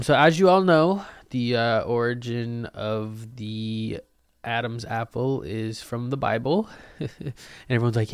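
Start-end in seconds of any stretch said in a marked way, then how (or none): 0.0-6.7 preachy announcement. Pretend. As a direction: announce it gravely to the church. Delivering sermon from podium.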